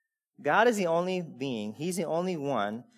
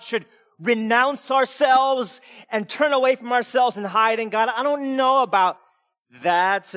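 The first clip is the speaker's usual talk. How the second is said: hesitant churchgoer voice, rising higher and louder; mock doubting churchgoer; 5 semitones higher, 4 dB louder than usual. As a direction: play the squeamish believer, half-mocking. Voicing uncomfortable churchgoers.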